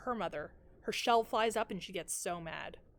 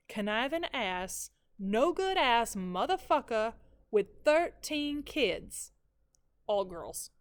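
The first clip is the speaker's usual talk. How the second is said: slow, drawn-out scorn with a lift at the end; mother's bitter rant; slower than usual. Retold or imitated. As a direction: spit out every insult slowly. Mother voiced insulting the father.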